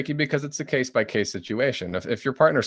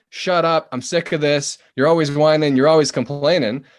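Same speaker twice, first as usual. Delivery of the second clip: fed-up shout, much louder and higher; angry outburst; 5 semitones higher, 6 dB louder than usual. Acted. Partner lashing out at constant complaining, angry louder shout. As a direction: blast it like you've finally had enough. Exasperated partner snapping back.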